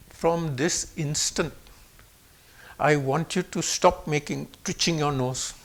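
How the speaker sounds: low, quiet, measured command; very serious. Retold or imitated. Baba orders the boy to stop twitching, very serious. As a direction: lay down the rule gravely and softly. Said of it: "Then he gets very serious".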